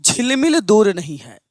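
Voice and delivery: measured, rhythmic verse recital; lilting Hindi verse delivery; poem recitation. Acted. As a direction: recite rousing couplets line by line, repeating them. Recites verse to open the class.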